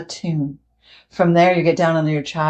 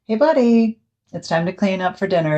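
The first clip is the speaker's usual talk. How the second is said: stronger tone; 2 semitones higher than usual. Pretend. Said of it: "So you say in a stronger tone".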